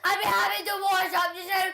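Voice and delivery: tearful shouting; heated family shouting. Real, not acted.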